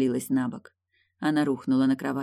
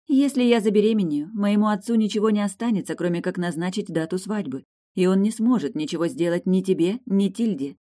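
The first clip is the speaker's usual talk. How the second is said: put-on higher, louder young woman's voice; lover's eager pleading, higher and louder; eager young princess; 5 semitones higher, 4 dB louder than usual. A narrator's reading. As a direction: play Eilin, eager and breathless with wanting. Eilin voiced by narrator.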